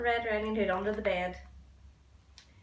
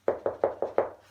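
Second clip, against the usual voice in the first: higher put-on little-girl voice from the wolf; a sly wolf squeaking sweetly like the girl; wolf faking a girl's voice; 11 semitones higher, 5 dB louder than usual. Wolf at Granny's door pretending to be the girl, high fake voice. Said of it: "growled the wolf in Little Red Riding Hood's voice".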